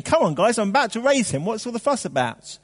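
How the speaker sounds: a mock-impatient Jesus waving away the fuss. Preacher imagines Jesus scolding the mourners, in mock impatience. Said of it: "In a kind of impatient way".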